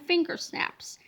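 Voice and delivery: conspiratorial whisper to the reader. Acted. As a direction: hush it like a secret. Secret warning to reader.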